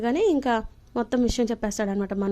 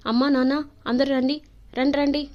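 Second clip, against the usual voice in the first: higher and louder call to the family; calling everyone; 3 semitones higher, 4 dB louder than usual. Retold or imitated. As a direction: summon the whole house eagerly.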